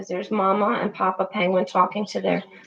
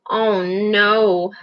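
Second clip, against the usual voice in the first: a lower, gentle touch of kindness; kindly; 4 semitones lower than usual. Acted. Petrel comforting Pip after her fall, kindly. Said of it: "said the petrel kindly".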